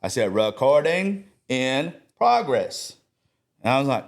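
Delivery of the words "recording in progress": slow, sing-song teacher recital; kindergarten teacher voice. Retold or imitated. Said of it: "I do this kindergarten voice".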